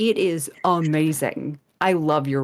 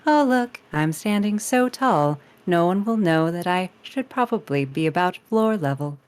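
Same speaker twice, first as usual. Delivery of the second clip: robot GLaDOS voice. Acted. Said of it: "Have her do the voice".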